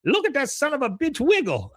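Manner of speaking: high, laughing hillbilly shout; Con's voice. Retold or imitated. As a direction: holler it while cracking up. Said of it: "he goes".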